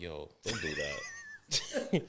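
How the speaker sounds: slow, soft, drawn-out warning; lightly voiced disapproval, low and slow; mock scolding parent. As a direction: ease it out like a quiet reprimand. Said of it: "I'm like".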